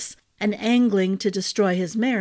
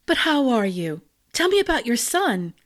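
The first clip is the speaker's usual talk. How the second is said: put-on light girlish voice; 2 semitones higher than usual. A narrator's reading. Bianca changes subject.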